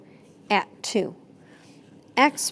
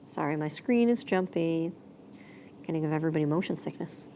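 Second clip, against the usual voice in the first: whispered aside; 5 semitones lower, 9 dB quieter, faster than usual. Real, not acted. Apologetic aside about jumpy screen.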